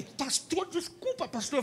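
high, thin voice of an overwhelmed friend; imitating a tearful friend. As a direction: squeak it out in disbelief. Bosco emocionado, voz imitada. (voz emocionada de amigo surpreso)

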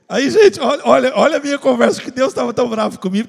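loud, high, excited call to the crowd; loud exclaim to the congregation. Real, not acted. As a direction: grab the church's attention.

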